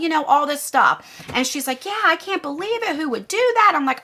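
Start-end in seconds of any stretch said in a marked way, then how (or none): 1.8-3.7 high-pitched mimicry of a friend's disbelief; imitating Karen's disbelief. Friend agreeing it is unbelievable, high imitated disbelief. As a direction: play her disbelief in a raised voice. Karen acting shocked in retold call.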